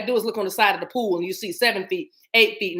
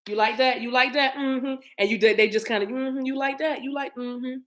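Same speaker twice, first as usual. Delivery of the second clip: pleased hairdresser; 5 semitones higher than usual. Retold or imitated. Imitates hairdresser spinning client round.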